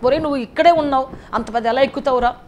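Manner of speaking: mild mock ridicule from the crowd; mocking scoff. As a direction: laugh off someone's big dream. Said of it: "అంటారు".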